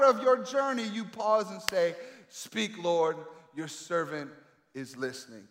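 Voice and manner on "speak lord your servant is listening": low, soft, slow, fading plea; softly, as a private prayer; hushed prayer. Shown as a demonstration. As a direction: drop to an intimate murmur. Same prayer, said softly now.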